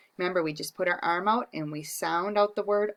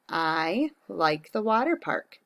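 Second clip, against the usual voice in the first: slow, careful sentence; slow dictation. Shown as a demonstration. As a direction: dictate it slowly. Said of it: "So I'm gonna start by saying".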